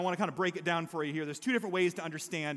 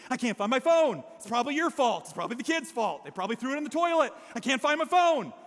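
louder, higher, frantic rant; stressed blaming; 4 semitones higher, 3 dB louder than usual. Retold or imitated. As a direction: take it out on everyone, hammed-up panic. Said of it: "you just take it out on everybody else".

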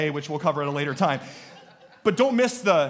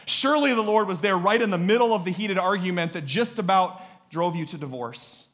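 higher, ringing refrain; impassioned preaching; 4 semitones higher, 4 dB louder than usual. Real, not acted. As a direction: hit each "Surely" hard, then ride it down.

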